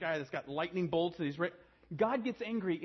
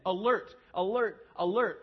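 alarm call; 4 semitones higher, 9 dB louder than usual. Acted. Body sounding alarm.

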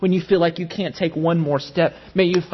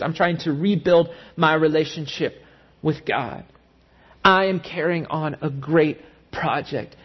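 resolute reply. Acted. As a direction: plant your feet and refuse. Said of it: "respond as Nehemiah did".

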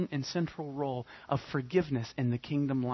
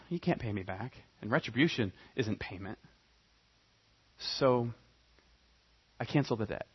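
king's soft pardon; 5 semitones lower, 5 dB quieter than usual. Acted. King forgiving servant, quoted softly.

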